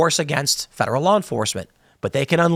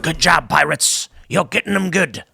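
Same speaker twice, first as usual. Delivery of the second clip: low wink-wink encouragement; 2 semitones lower than usual. Retold or imitated. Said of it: "the crown of England would be like".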